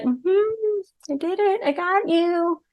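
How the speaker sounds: high, soft gloating voice; smug narcissist. Retold or imitated. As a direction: purr it out like a pleased manipulator. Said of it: "they're like".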